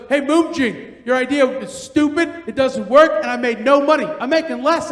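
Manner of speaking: indignant grumble with punched words; acted complaining. George complaining to his coworker about no money, acted annoyance. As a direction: gripe at a coworker, mildly hammed-up. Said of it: "they all came back and complaining".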